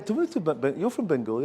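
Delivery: ordinary talk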